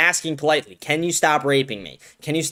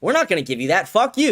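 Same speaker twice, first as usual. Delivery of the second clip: mock Netanyahu sneer; 5 semitones higher than usual. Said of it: "He said".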